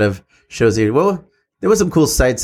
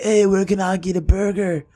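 high-pitched attempt at a vaguely Irish accent; uncertain accent imitation; 7 semitones higher than usual. Retelling a band singer hunting for food, mock Irish-like accent. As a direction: put on a shaky guess at an Irish accent, pitched up. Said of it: "I don't know if that's the accent".

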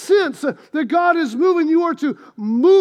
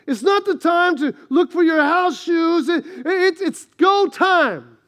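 urgent preaching; 2 semitones higher than usual. Acted. Urgent preaching about labor.

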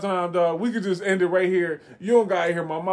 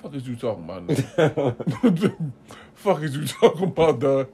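baffled question broken up by laughter; laughing; 3 semitones lower, slower than usual. Real, not acted. Baffled by the friend's rambling, laughing. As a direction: ask it low, laughing through it. Cracking up at the other speaker.

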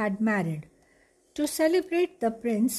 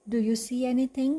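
calling down; faster than usual. Acted. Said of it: "she called down".

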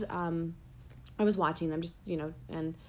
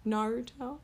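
higher, louder, smug; snobby weeb; 5 semitones higher, 5 dB louder than usual. Retold or imitated. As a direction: say it like a pretentious fan. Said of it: "sounds like an asshole saying it".

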